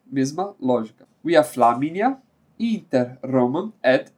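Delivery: slow, measured reading of Latin road names. Acted. Teacher reading Latin road names to his students, slow and measured. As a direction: let each name land for the class.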